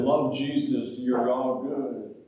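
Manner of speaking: acted serene acceptance; calm. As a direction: say it slowly and calmly, voice settling down. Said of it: "we would have just calmly said".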